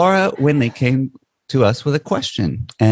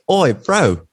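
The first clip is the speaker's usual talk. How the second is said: higher-pitched imitation of a New Zealand accent; New Zealand greeting; 5 semitones higher than usual. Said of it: "in this really specific way".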